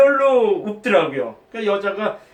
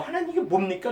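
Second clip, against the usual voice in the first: softer, pleading; plaintive prayer; 3 semitones higher, 6 dB quieter than usual. Retold or imitated. A frustrated believer pleading with God in prayer, softly. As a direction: ask God quietly in frustration.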